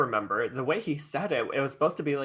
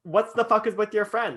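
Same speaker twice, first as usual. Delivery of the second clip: high, louder incredulous challenge; imitated outrage; 8 semitones higher, 3 dB louder than usual. Imitating a friend confronting the guy's group, high and outraged. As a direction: mimic a shocked friend confronting them.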